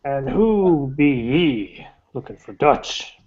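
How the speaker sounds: put-on slow suspicious old sailor voice; gruff old fisherman. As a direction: drawl it like a wary old salt. GM voices gruff tavern local.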